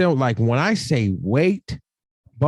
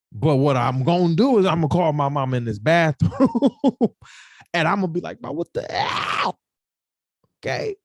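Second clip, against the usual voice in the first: hammed-up high wail to Ma; mock crying call; 4 semitones higher than usual. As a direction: imitate a tearful, breaking plea. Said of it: "She can't see me crying".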